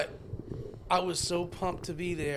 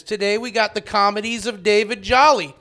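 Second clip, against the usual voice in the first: announcer intro; 5 semitones higher, 12 dB louder than usual. Retold or imitated. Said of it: "your introduction is".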